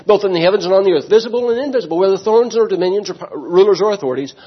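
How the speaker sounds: quick, lifted Bible reading; scripture reading. Shown as a demonstration. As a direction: read the passage out to the church. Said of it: "let's read the entire text".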